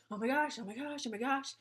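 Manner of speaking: high, loud panicky oh my gosh; imitating her own freak-out, high and loud. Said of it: "I'm like".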